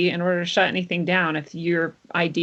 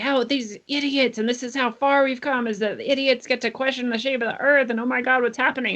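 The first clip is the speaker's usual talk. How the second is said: mock exasperated whining, pitched higher and slowed; mocking freak-out; 6 semitones higher than usual. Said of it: "people were freaking out and they're like".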